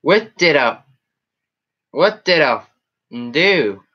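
usual speaking voice

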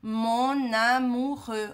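"Mon amoureux" said slowly with the liaison; slow model pronunciation. Shown as a demonstration. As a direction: stretch out "Mon amoureux" so it can be copied. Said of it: "você pode falar mon amoureux". ("Mon amoureux" bem devagar, com a ligação)

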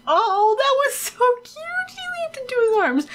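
high-pitched squealing coo; delighted high squeal; gushing. Real, not acted. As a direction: gush over it, voice way up. Gushing over Sims' hug.

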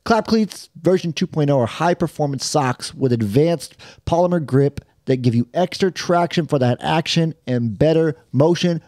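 host reading a sponsor spot. Acted. Host pitching sponsor socks to podcast listeners, ad read. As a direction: sell the socks like an ad.

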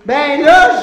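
loud irritated protest; annoyed outburst. Acted. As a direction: snap it out, fed up.

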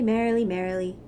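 the answering "merrily, merrily" brought down low. Acted. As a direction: let the second "merrily" fall. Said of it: "said the other frog".

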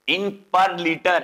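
"in per liter" said very slowly, word by word; slow dictation. Shown as a demonstration. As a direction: drag out "in per liter" so students can write it. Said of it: "repeated slowly for notes".

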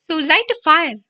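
high, loud strained urging; urgent choked cry. A narrator's reading. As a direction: force it out while being strangled. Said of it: "Harry choked".

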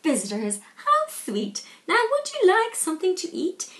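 a lightly voiced sweet dragon, high on "how sweet"; sly dragon. Dragon welcoming the Vikings, lightly voiced and sweet. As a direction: sound sweet but mean to eat them.

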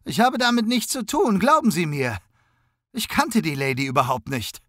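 high, whimpering plea; pleading innocence in a tearful high voice; whiny, pleading. A narrator's reading. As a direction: beg them to believe you, close to tears. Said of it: "beteuerte dieser mit weinerlicher Stimme".

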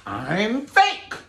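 high, loud squealing fake; earrings screaming. Gaudy earrings shrieking at viewers, high squeal. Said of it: "Them bitches was screaming".

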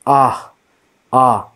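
short open "ah", standing alone; teacher isolating "ah"; vowel demonstration. Shown as a demonstration. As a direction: sound out "ah" as a free vowel. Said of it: "So when we use a".

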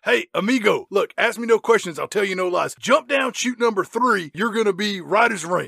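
lightly hammed-up helper voice; slick stranger giving instructions. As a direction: hustle someone toward an escape. Playing the unseen helper.

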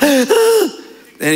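gasp, then sink to the ground slowly; mock terror gasp. Gasp acting John's terror.

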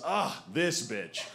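slow, fed-up groan; weary groan. Retold or imitated. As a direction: grumble it, exhausted at night. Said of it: "Kara just goes".

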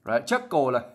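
normal talking voice

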